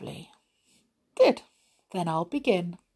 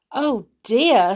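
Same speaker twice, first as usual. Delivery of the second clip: alarmed; 3 semitones higher, 6 dB louder than usual. Acted. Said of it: "said Molly in alarm".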